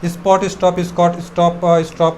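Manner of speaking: tongue-twister run together without pauses; one-breath drill. Shown as a demonstration. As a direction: chain the words on one breath, stumbling at the end. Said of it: "একদমই আবার বলার try করো".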